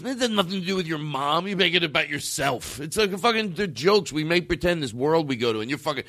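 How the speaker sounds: put-on heated New York accent. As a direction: imitate a New Yorker setting someone straight. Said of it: "a little bit of a New York accent".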